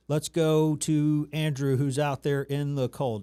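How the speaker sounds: slow, measured news anchor read; reporter voice. Shown as a demonstration. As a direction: toss to the field reporter like an anchor. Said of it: "That is the reporter voice".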